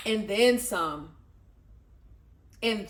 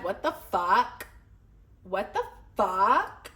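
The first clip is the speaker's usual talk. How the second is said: mock irritated; slower than usual. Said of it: "Hella irritated, like".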